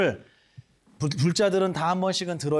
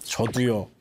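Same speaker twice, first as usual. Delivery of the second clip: 웃음 섞인 대답; 6 semitones lower, much slower than usual. Retold or imitated. 스님께 한 대답 재연.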